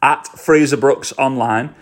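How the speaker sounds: handle spelled out slow and clear; slow down so they can write it down; repeating an Instagram handle to listeners, slow and careful; slow and deliberate. Shown as a demonstration. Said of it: "I only have one account on Instagram".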